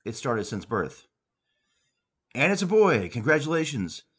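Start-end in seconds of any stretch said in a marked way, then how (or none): 2.3-4.0 high, loud delighted announcement; excited exclamation. Acted. Doctor to new mother, announcing the baby with loud joy. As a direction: cheer the news of the birth. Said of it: "exclaimed Doctor Fitzgibbons".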